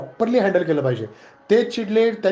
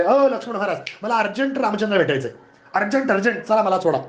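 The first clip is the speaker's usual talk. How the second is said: higher, pressing urgent demand from an irate sage; impatient sage; 3 semitones higher than usual. Acted. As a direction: push past the guard, urgent and irritated. Angry sage Durvasa demands entry. (उतावळा रागीट मुनी)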